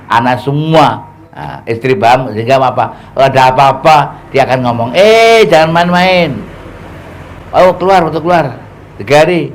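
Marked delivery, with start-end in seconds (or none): 4.9-9.5 acted wife urging. Wife urging her husband to go out on dakwah, earnest and higher. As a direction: plead with him like a devoted wife.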